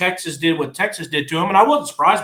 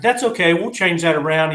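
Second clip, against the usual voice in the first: raised-pitch camp counselor act; camp attendant; 2 semitones higher than usual. Acted. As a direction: play the upbeat counselor soothing a kid. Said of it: "camp attendant's like".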